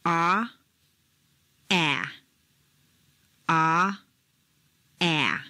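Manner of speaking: ah drawn with a dropped jaw; vowel demo. Shown as a demonstration. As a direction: repeat ah with the jaw open. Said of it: "Try it a few times now".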